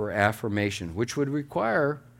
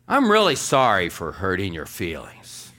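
louder, brusque "I'm really sorry"; insincere apology; 4 semitones lower, 4 dB louder than usual. Shown as a demonstration. Pastor showing a congregation the wrong way to apologize, brusque. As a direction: throw the apology out forcefully, leaning hard on "sorry". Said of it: "say this same sentence two different ways".

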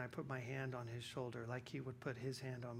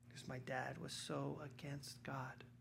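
whisper; 6 dB quieter, slower than usual. Real, not acted. Confiding aside about his father.

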